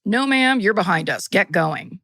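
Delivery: curt police officer voice; brusque officer waving them on; cop voice. Retold or imitated. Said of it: "And now this is the cop voice".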